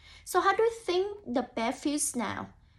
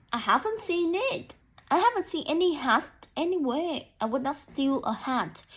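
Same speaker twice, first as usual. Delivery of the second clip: nervous rabbit talking too much, higher; a jittery rabbit rushing his denials; defensive rabbit; 3 semitones higher than usual. Acted. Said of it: "The rabbit sounds very defensive".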